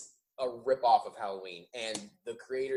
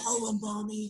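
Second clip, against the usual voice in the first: put-on creepy little boy voice, higher and quieter; 11 semitones higher, 4 dB quieter than usual. Joking about a scene with a cop: creepy little boy voice. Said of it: "that creepy little boy voice you do".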